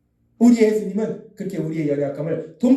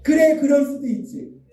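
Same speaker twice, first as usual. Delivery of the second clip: higher, projected, for repeating; leading the phrase; 6 semitones higher than usual. Shown as a demonstration. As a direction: call it out for the congregation to follow. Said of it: "한번 해보겠습니다". (따라 하도록 높여 말하는 시범)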